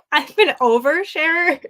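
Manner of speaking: real giggly admission; self-mocking laugh. Real, not acted. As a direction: confess it while laughing at yourself. Laughs at own oversharing.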